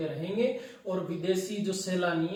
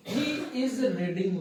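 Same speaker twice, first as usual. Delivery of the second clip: each word drawn out slowly for the class; slow dictation; 2 semitones higher, much slower than usual. Shown as a demonstration. Teacher reading the example sentence slowly to students, drawn out. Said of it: "तो देखो".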